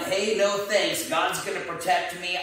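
lightly acted holler turning down help; mild yell back. Man on roof to boatman, mildly yelling back. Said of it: "yells back down".

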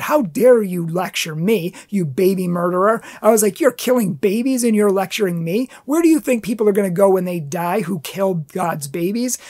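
indignant, moderately forceful retort; retold heated anger. Speaker retelling his retort to the lady who yelled, retold heated anger. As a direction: re-enact a self-righteous scolding. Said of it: "I was already heated".

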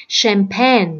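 "champagne" starting with SH; curled-tongue SH sound. Shown as a demonstration. Teacher showing the odd word out, SH sound. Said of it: "nó là âm sờ ha, âm sờ cong lưỡi".

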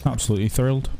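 flat, deadpan sarcasm; dryly unimpressed; sarcastic. Real, not acted. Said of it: "You can hear it in his voice".

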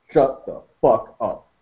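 slow, level, cold; slow and even. Acted. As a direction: say it evenly and slow. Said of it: "slowly. and evenly".

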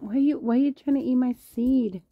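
high-pitched loud whisper at a pet; high whispered scolding. Real, not acted. Scolding a pet over seed.

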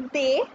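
"they" said as French letter D, day; French "they", a short day sound; French letter name. Shown as a demonstration. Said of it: "D is they".

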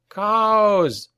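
high, drawn-out alarm call; one long, high-pitched yell; shout. A narrator's reading. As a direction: shout a warning across a battlefield. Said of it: "he shouted".

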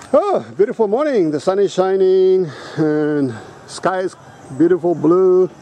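playful open-air poetry, lingering on the words; waxing lyrical. Real, not acted. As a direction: savour each phrase, drawn out and poetical. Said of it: "I'm waxing lyrical, poetical here".

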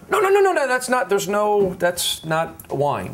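loud, sharp and high. Real, not acted. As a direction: bark the no's out loud. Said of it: "Why, why are you yelling?".

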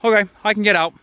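high, eager voiced-over goat; goat's inner voice. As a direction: voice the goat's happy discovery. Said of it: "he's like".

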